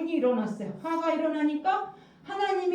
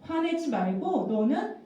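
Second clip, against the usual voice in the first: God's warning; 3 semitones lower, 3 dB louder than usual. Acted. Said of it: "이렇게 경고하셨어요".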